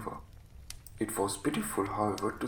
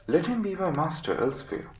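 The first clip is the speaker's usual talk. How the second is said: higher-pitched, determined declaration; firm resolve; 7 semitones higher, 5 dB louder than usual. Acted. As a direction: assert your authority as the doctor. Doctor's professional instincts aroused.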